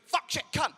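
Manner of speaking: three short clipped swears, high; rapid swearing. Shown as a demonstration. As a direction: fire off the swears fast and punchy. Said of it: "listen to that".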